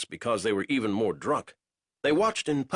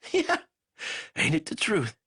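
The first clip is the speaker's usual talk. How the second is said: chortling; 8 semitones higher than usual. Acted. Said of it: "Banks chortled".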